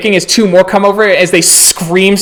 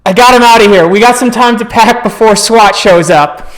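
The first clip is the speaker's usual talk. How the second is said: raised, hearty announcement; rallying call; 4 semitones higher, 4 dB louder than usual. Acted. Man reporting the bear gone to the group, raised call.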